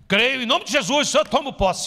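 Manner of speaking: booming confident proclamation; resounding declaration. Retold or imitated. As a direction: proclaim it like a triumphant believer. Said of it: "devia falar de maneira retumbante".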